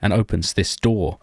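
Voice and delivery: measured storyteller's narration; story narration. Acted. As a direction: narrate the game like a tale.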